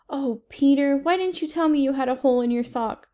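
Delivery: mildly voiced fretting mother; fussing mother. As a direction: scold like an embarrassed mom. Mother scolds about sock hole.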